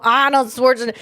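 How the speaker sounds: lightly put-on Austrian accent, r dropped in "Arnold"; Arnold Schwarzenegger accent. Podcaster warming up an Arnold impression, tentative Austrian accent. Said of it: "Let's see if I could do Arnold".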